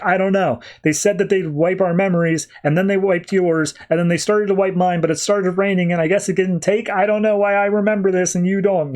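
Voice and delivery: put-on Patty on his knees begs the girl holding the gun; mock panic. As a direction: plead for your life, lightly played. Patty pleads at gunpoint.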